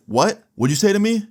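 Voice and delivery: confrontational challenge. Retold or imitated. Angry guy gets in the storyteller's face, mock confrontational. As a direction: act out squaring up to someone, incredulous.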